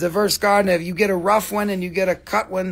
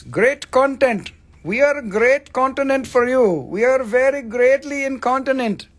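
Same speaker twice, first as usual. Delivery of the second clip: mock funny voice; 6 semitones higher, 4 dB louder than usual. Mock voice for wordplay joke.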